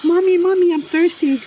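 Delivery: put-on very high, childlike whine for mommy; thirsty plant child. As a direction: voice a little plant calling its mom for water. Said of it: "I can hear their screams".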